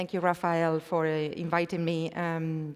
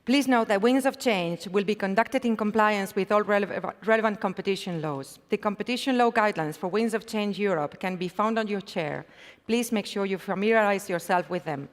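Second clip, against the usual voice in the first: reading out a formal notice. Real, not acted. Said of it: "I had to read this one".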